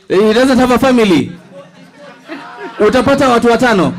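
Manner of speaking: fast, laughing and high. Real, not acted. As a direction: joke through laughter. Joking about winner, laughing.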